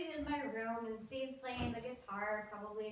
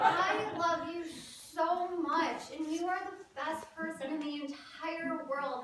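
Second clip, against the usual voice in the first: gushing apology; 4 semitones higher, 4 dB louder than usual. Acted. Teen performing an apology to mother on phone, gushing. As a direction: lay the devotion on thick, stretching key words.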